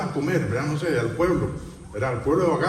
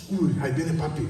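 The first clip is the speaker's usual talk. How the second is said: mild dread. Acted. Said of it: "o los hijos se van a esconder".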